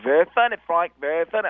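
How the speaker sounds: light, pleased co-host after the show; mock friendly Terry. Terry praises Frank off air, mock friendly. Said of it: "he's always like".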